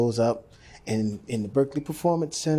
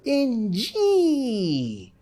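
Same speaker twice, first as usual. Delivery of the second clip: Betty's curt order; 10 semitones higher, 3 dB louder than usual. Retold or imitated. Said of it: "she turned around and said".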